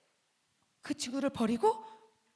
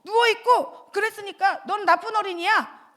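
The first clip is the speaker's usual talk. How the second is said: loud, higher accusing scold; an imagined stern God scolding the child; 5 semitones higher, 5 dB louder than usual. Acted. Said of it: "하나님은".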